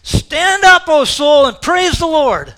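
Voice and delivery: high, loud, urgent shout; David rousing his own soul, shouting; commanding himself. Retold or imitated. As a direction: shake yourself awake with it. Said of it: "grabbing himself by the shirt and saying".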